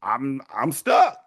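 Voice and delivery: high, whining, helpless husband begging his wife; whiny dad pleading. Retold or imitated. Husband begging wife Mildred for sex, high helpless whine.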